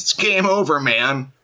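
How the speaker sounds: pitched well up, a mock-panicked Aliens line; lightly hammed Hudson-style wail; Bill Paxton quote. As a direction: toss it off like a freaked-out space marine. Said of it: "as Bill Paxton would say in Aliens".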